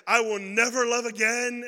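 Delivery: hammed-up lovesick, slow; mock dramatic. Teen love text mocked by preacher, slow mock drama. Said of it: "oh, so utter".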